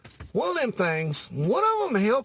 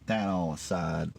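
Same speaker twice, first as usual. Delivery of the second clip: deep voice; 10 semitones lower, 4 dB quieter than usual. Acted. Repeated phrase, dropped deep.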